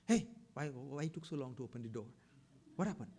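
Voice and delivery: mild mock yell of a friend at the door; mock shout. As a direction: imitate an annoyed friend barging in. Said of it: "Then he started shouting at me".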